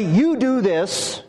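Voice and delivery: slow, drawn-out command; strong imperative. Acted. Preacher showing a direct order to somebody, strong imperative. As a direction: order it word by word, slowly. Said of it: "in a strong imperative".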